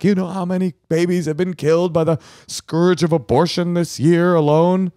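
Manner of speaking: high-pitched, impassioned crank voice; wackadoo pro-life guest. Retold or imitated. Guest springing abortion talk on dinner table, high wackadoo voice. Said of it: "like, kind of wackadoo".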